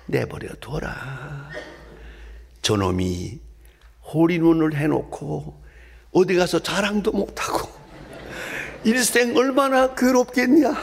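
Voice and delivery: a hint of God's voice, rising as it goes; God answering. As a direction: start unhurried, build to a high punchline. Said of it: "하나님이 대답하시는데".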